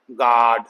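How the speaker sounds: "गार्ड" low, with long AA and no U; silent U. Shown as a demonstration. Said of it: "यू silent हो जाता है".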